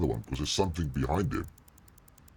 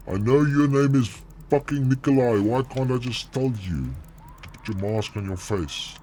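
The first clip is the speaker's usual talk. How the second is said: exasperated yelling; 9 semitones higher, 4 dB louder than usual. Real, not acted. Exasperated outburst at teammate.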